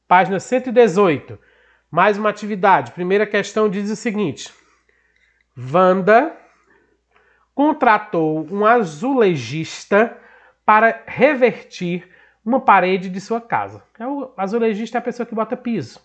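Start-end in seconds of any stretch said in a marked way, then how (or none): 5.6-13.8 slow, deliberate read-out of a textbook problem; measured classroom dictation pace; reading a question aloud. Acted. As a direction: read it slowly for the class, phrase by phrase.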